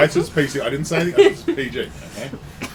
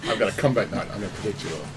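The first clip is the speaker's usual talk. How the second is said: a hint of Australian in "I've got a combat knife"; mild Aussie twang, tough-guy bravado; Australian accent, lightly done; 5 semitones lower than usual. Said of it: "You put the Australian accent on".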